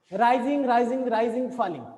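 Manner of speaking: each "राइजिंग" held up, "फॉलिंग" dropping; list intonation. Shown as a demonstration. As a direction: keep every "राइजिंग" lifted, then fall on "फॉलिंग". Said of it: "अब ये राइजिंग". ("राइजिंग" ऊपर, आखिरी "फॉलिंग" नीचे)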